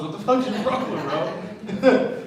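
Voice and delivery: high, slow exasperated outburst; bewildered outrage. Retold or imitated. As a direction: draw it out, rising high and loud at the end. Acted bewildered outburst at angry man.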